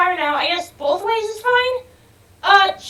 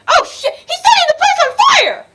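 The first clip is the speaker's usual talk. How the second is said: laughing shout; 10 semitones higher than usual. Real, not acted. Gamer yelling at the screen as the fire starts, laughing shout. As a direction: burst out laughing and shout in disbelief.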